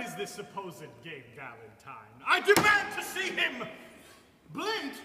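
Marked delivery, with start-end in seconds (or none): 2.3-3.7 loud, high, outraged demand; indignant demand. Acted. Husband demanding to see the imposter, loud and outraged. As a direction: insist with full indignation.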